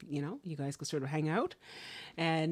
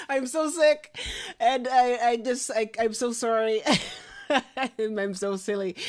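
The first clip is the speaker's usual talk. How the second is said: loud, high laughing apology; embarrassed laughing; 7 semitones higher, 11 dB louder than usual. Real, not acted. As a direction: laugh helplessly at your own slip, voice jumping up. Laughing over forgetting the guest's name.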